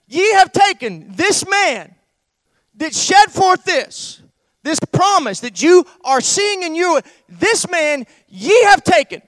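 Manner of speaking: loud, high, slow proclamation; lifted-up voice. Acted. Peter accusing the men of Israel, lifted-up preaching voice. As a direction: preach it out like Peter confronting the crowd. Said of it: "he lifts up his voice".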